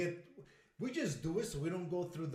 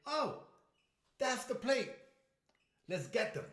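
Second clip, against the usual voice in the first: hitman voice; 8 semitones higher, 4 dB louder than usual. Pretend. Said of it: "be like".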